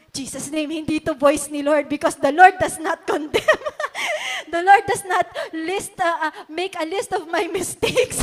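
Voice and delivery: laughing protest. Retold or imitated. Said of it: "Sabi ko pang ganon".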